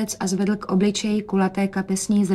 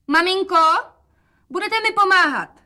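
put-on much higher, eager girl's voice; young daughter; 11 semitones higher, 4 dB louder than usual. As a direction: lift into a bright young girl. Daughter's voice in story.

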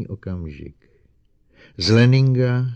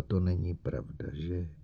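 quiet repeating; 9 dB quieter than usual. Acted. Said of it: "neustále opakovala".

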